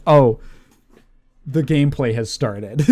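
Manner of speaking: mock excited gamer. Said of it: "joking about the letterboxes".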